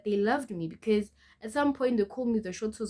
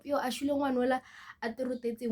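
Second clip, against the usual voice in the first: higher, quick mock taunt; mimicked jeering; 6 semitones higher, much faster than usual. Schoolmates at the tuck shop gossiping about her, mimicked jeering. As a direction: imitate schoolmates calling out a tease, fast and higher.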